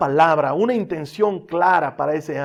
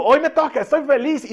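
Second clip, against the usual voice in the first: excited; 8 semitones higher, 5 dB louder than usual. Retold or imitated.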